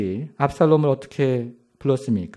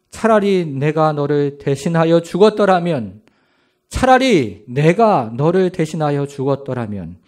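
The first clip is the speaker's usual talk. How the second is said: wailing. Acted. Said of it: "이렇게 울부짖기를 시작합니다".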